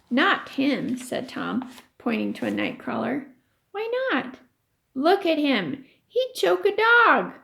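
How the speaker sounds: lively read-aloud voice for the class; story reading. A narrator's reading. Teacher reading a chapter to her class, storytelling voice.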